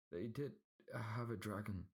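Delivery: high, timid servant voice; frightened servant. A narrator's reading. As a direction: confess it trembling. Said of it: "lisping and stuttering man".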